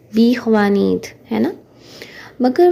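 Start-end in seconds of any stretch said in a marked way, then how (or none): 0.1-1.1 बी ख्वानीत with "bee" at the start; Urdu pronunciation. Shown as a demonstration. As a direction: keep the ee in बी ख्वानीत. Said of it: "अगर हम उर्दू में पढ़ें". (बी ख्वानीत, Urdu वाली "बी")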